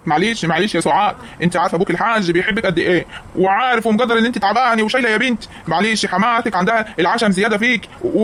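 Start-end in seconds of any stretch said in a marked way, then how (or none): 0.1-3.1 lower-pitched, placating reassurance; calm someone down after a row; soothing. Acted. Father-in-law consoling upset Soad, soothing.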